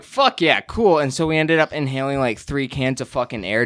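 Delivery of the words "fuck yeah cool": quick excited yes; eager yes. Retold or imitated. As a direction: blurt it out, stoked. Retold eager reply.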